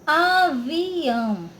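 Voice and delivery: "avião" very slow, syllables stretched and connected; drawn-out word. Shown as a demonstration. Teacher presenting a tricky word to pupils, "avião" very drawn out. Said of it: "A palavrinha".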